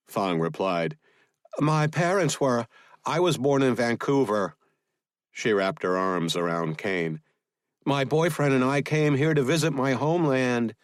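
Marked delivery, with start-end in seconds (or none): 1.6-10.7 higher-pitched female character voice; Fong's lighter, higher voice; woman explaining herself. A narrator's reading. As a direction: explain innocently in a raised pitch. Voices Fong in dialogue.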